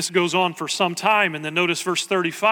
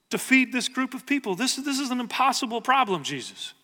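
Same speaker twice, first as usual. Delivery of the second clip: higher-pitched incredulous protest; arguing back; 4 semitones higher than usual. Acted. Disciples to Jesus over two hundred days' wages, arguing back. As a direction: push back at an impossible demand. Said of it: "the disciples argue back".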